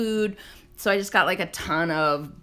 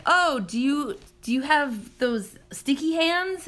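put-on kid asking; 8 semitones higher, slower than usual. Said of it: "the kid is like".

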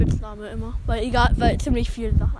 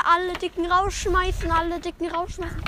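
mimicked driver's call; 5 semitones higher than usual. Passenger mishearing the driver, sing-song call. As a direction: draw it out like an announcement.

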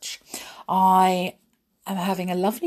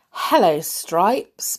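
cheerful greeting; 4 dB louder, much slower than usual. Acted. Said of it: "Baloo greeted him cheerfully".

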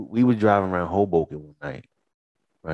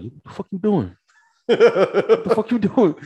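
hammed-up outrage, louder on the repeat; baffled Kyle; 12 semitones higher, 5 dB louder than usual. Kyle yelling at his friend for pulling back up, high and laughing. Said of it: "He like".

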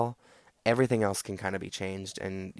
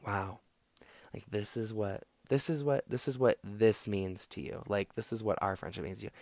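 quietly wounded, almost emotionless; understated shocked friend; calm hurt disbelief; 4 dB quieter than usual. Shown as a demonstration. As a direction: let them hear how they sound, softly. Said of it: "you have to look at them like".

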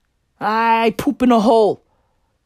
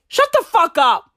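high, exasperated mock outburst; Johnny Depp; 7 semitones higher, 3 dB louder than usual. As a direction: pitch it up, fed up with the singing. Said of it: "That's Johnny Depp".

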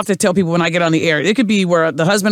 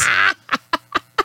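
high amused laugh; 10 semitones higher, 4 dB quieter than usual. Real, not acted. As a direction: let out a bright laugh. Laughs after the sarcastic thanks.

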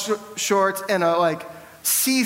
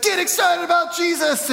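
excited shout; 9 semitones higher than usual. Retold or imitated. Guy standing on the breakfast table yelling at the pastor, high excited shout. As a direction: yell it right in someone's face with huge hype.

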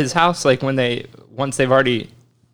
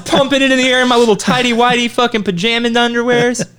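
excited; 9 semitones higher than usual. Retold or imitated. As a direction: relive the childhood thrill. Retelling childhood joy.

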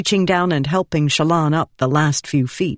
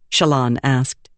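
plain reading voice

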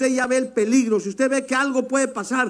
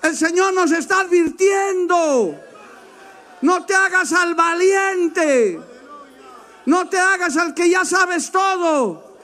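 preaching shout; 5 semitones higher than usual. Acted. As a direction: thunder the warning at the hearers. Preacher warns at full force.

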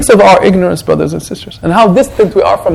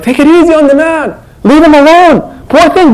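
mock sympathetic tweeters; 9 semitones higher than usual.

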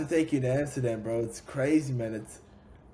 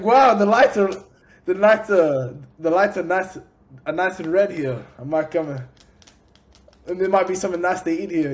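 wowed and raised, replaying his first look; retold wide-eyed wonder; 3 semitones higher, 6 dB louder than usual. Man retelling his stroll into the red light district, in naive wonder. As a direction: act out naive amazement at the sights.

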